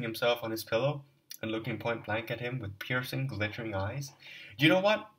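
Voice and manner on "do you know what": fierce cry. Acted. Raskolnikov confronting Luzin.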